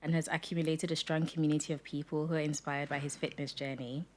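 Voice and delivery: polished host intro read aloud. Acted. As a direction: read the guest's bio like a show announcer. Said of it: "Going to do your intro".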